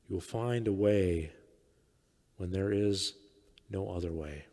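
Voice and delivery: scripture reading. Acted. Reads Jesus' words as scripture.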